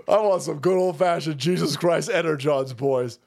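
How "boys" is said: normal talking voice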